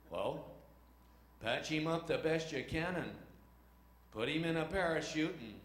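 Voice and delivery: halting movie-hero phrases with big pauses; John Wayne. Acted. Captain giving sergeant orders, halting hero impression. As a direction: give orders like a swaggering screen cowboy. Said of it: "John Wayne puts the plane".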